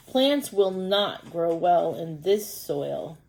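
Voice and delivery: slow, careful read-aloud as a little earthworm; reading to children. Acted. Teacher reading an earthworm book to pupils, slow storytime voice. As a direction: read it slowly, word by word, for young readers.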